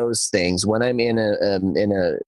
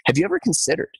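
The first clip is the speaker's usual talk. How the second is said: inquisitive; 8 semitones higher, much faster than usual. Shown as a demonstration. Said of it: "flip it around and say".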